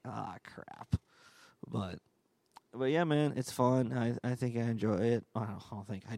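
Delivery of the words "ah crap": muttered ah crap. Retold or imitated. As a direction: sigh it out under the breath. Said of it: "you're like".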